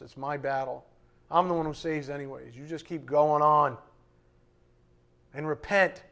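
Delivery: lightly voiced reassuring God; a hint of a fatherly encourager; voicing God. God encouraging a struggling believer, lightly voiced, reassuring. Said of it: "And he says".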